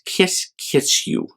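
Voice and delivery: breathy whisper, slow and playful; whispered kisses. Acted. Mother bear whispers while kissing her cub, playful. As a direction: whisper the kisses softly into his ear.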